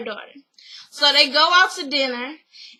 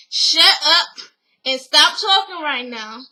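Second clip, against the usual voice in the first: louder, bossy cut-off; mock scolding; 4 dB louder than usual. Coco orders Taj to stop arguing, a loud bossy cut-off. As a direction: shut her down mid-argument.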